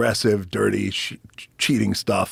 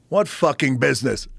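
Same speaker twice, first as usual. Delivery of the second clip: incredulous boss; 6 semitones higher than usual. Retold or imitated. Pat Patterson incredulous.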